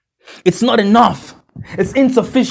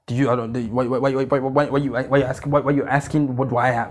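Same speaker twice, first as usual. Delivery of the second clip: flustered muttering; 7 semitones lower, 5 dB quieter than usual. Retold or imitated. Mocking a flustered, insecure voice.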